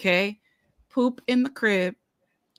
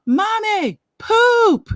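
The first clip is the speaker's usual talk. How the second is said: put-on high little-kid voice calling mommy; high, loud toddler whine; 13 semitones higher, 8 dB louder, much slower than usual. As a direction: play the small daughter calling out.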